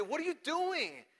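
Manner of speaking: high, drawn-out indignant question; mock outrage, pitch leaping up slowly; scandalized. Pharisees catch disciples picking grain on Sabbath, scandalized.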